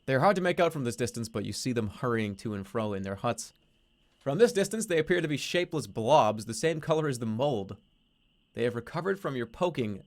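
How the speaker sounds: steady storyteller reading the game text; story narration. A narrator's reading. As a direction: read it like a narrator setting the scene. Reading a text adventure aloud.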